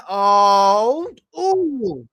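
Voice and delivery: sudden awed "ooh" at the big move; excited gasp. Real, not acted. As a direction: gasp in amazement.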